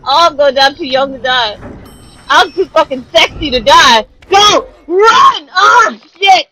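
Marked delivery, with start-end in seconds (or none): 4.3-6.5 higher, tense shouts with a sob in them; frightened yelling. Real, not acted. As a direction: yell it half crying in fear. Escaping monster.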